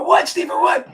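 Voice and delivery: loud, straining to be heard; yelling over the music to Stephen; shouting over loud music. Retold or imitated. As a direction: call out over blaring music.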